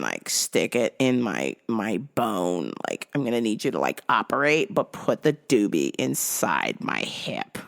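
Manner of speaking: lightly voiced stoner patient, matter-of-fact; imitating the lady. The lady explains her hip plan to her doctor, mock voice. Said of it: "she's gonna be like".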